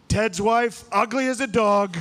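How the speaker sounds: high, put-on Trump insult; Trump impression. Comic retelling the debate, Trump voice high. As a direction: toss it off like Trump.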